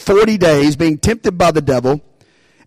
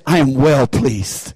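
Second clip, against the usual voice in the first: tender father's voice; 5 semitones lower, much slower than usual. Retold or imitated.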